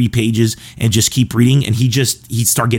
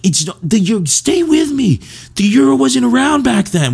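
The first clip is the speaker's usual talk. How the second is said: exasperated teacher impression; 14 semitones higher than usual. Comedian imitating the history teacher answering about the euro, high and exasperated. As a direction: shriek it in disbelief. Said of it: "we just like".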